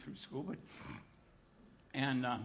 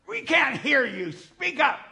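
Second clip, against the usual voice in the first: put-on loud, higher, slow drunken heckle; heckler's yell; 8 semitones higher, 10 dB louder, slower than usual. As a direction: yell it from the back of the crowd. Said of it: "He yelled at me".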